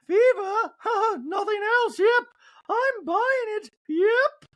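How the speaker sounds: very high, loud sarcastic voice; mock her doubt in falsetto; high scoffing disbelief; sarcastic Dorit. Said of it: "Dorit continues in a talking head".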